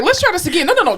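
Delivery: high, put-on patient tone; mock self-coaxing. Therapist re-entering the room, mock patience. Talking herself back into room.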